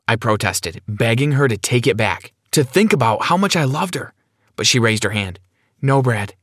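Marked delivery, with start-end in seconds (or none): 5.8-6.3 understated firm refusal. Acted. Sarah refuses Brad's plea, firm. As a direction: shut it down without raising the voice. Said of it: "she said firmly".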